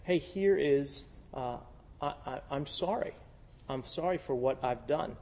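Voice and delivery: a soft, humble apology; humble sincere apology. Retold or imitated. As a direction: say sorry softly and mean it. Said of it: "to go and say".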